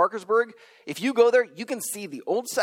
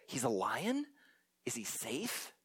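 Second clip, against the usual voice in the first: softer, lower nervous question; timid child's question; 5 semitones lower, 12 dB quieter than usual. Retold or imitated. Pevensie child asking the beaver about Aslan, timid. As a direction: ask it small and worried.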